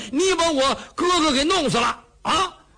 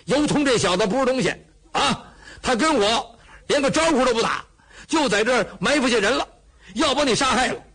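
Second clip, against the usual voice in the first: blustering exclaim; 3 semitones higher than usual. Acted. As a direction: bellow it out, full of bluster. Cheng exclaims, blustering loudly.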